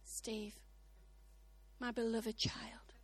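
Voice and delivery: hushed, slow and tender whisper; low, loving whisper as the Spirit's gentle prompting; gentle Holy Spirit. Acted. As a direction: whisper it softly, with long pauses. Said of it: "He probably says something like".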